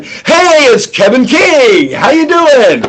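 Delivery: barge in all gung-ho; overeager opener. Shown as a demonstration. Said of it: "Don't go in".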